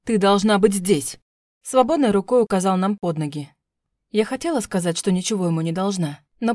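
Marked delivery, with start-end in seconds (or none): 0.0-1.2 slow, heavy angry command; slow menacing order to his wife. A narrator's reading. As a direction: lay down the law, slowly. Husband yelling at wife.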